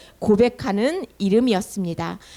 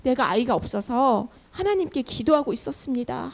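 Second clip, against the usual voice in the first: acted plea, starting high then easing down; mock tearful pleading; 5 semitones higher than usual. Hannah explaining herself to the priest, lightly tearful plea. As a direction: plead your case as if near tears, lightly acted. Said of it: "하면서 막 울면서 자기 사정을 얘기해요".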